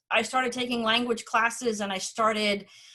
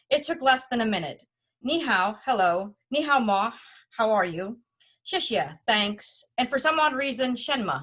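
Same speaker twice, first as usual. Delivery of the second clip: reading a travel memoir aloud, evenly paced; story narration. A narrator's reading. Reading own Beijing travel story to an audience, story narration. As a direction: read it out like a personal essay.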